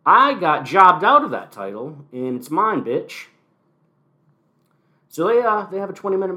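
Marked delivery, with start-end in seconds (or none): 0.1-3.3 higher, angry retold snarl; mock Kofi rage. Kingston confronting McIntyre, angry mock outburst. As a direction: growl it like a wronged champ. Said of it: "and he's like".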